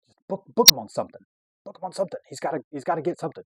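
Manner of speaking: high, eager imitation of a cop; excited. Cop eager to book him on something, excited. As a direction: urge it on with mock eagerness. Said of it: "you know, excited".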